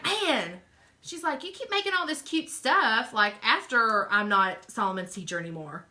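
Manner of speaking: lightly voiced friend griping; imitated friend's complaint. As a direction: playfully act out a friend's protest. Acting out friend's teasing complaint.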